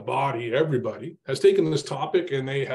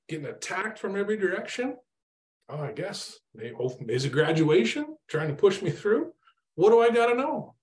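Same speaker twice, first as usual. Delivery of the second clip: exasperated at God; 6 semitones higher than usual. Retold or imitated. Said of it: "I'm like".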